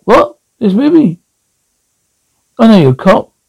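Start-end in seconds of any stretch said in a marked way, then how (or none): 0.0-1.2 surprised. Acted. Mock surprise at being called cop.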